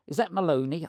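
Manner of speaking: high-pitched stab at a boxing promoter's voice; Don King. Retold or imitated. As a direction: imitate the promoter without managing the accent. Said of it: "I can't do his accent".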